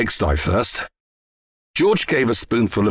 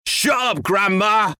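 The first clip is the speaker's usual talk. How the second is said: high, shouted brush-off; exasperated, raised-pitch telling-off; irritated retort; 11 semitones higher, slower than usual. A narrator's reading. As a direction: silence her with an annoyed cry. Father snaps at shouting grandma.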